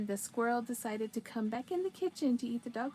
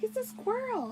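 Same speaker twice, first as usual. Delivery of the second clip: imitating husband; 11 semitones higher than usual. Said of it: "He's like".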